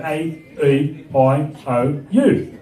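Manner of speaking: Australian accent, vowels recited one by one; evenly spaced Australian vowels. Shown as a demonstration. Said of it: "when we say our vowels".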